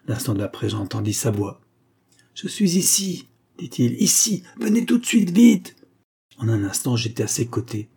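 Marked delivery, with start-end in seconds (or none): 2.3-5.8 high, urgent call from another room. Acted. De Castro calling the narrator to hurry to him, high urgent call. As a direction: shout so he'll hurry over.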